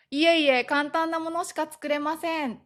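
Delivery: high-pitched humble deflection; modest demurral. Shown as a demonstration. Praised for cooking, humble and reserved. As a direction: play down your skill, high and polite. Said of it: "こう遠慮がちに言うこと".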